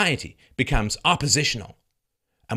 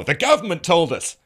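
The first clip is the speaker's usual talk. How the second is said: mock media reply; 7 semitones higher, 7 dB louder than usual.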